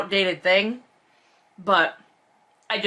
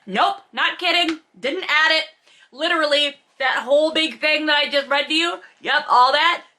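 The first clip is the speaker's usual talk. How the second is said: higher, animated disbelief; incredulous; 7 semitones higher than usual. Real, not acted. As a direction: rant in amused outrage. Incredulous rant after reading.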